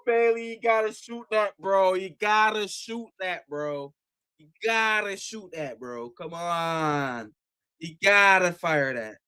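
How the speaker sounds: frustrated pleading. Real, not acted. Pleading with player on screen.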